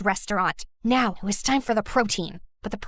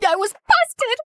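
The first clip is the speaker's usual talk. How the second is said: embarrassed laugh; slower than usual. Acted. Caught spying, embarrassed.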